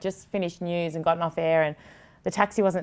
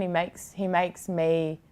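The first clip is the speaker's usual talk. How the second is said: a real lump in the throat, slowing down; getting emotional; slower than usual. Real, not acted. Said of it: "I don't know why I'm getting emotional".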